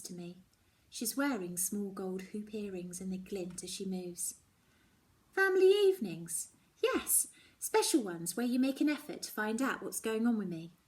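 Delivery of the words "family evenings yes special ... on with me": frustrated daughter. Acted. Daughter argues with Mum.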